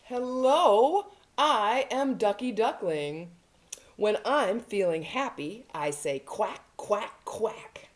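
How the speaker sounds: lively storybook duckling, greeting slowly and clearly; cheerful duckling. Acted. Reading Ducky Duckling's hello to little children, cheerful duckling. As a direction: play a happy little duck for toddlers. Reads picture book as duckling.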